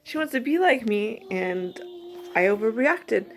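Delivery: real emotion catching in the throat; choked up. Real, not acted. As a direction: voice rising as she gets upset. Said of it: "sorry, I'm getting upset".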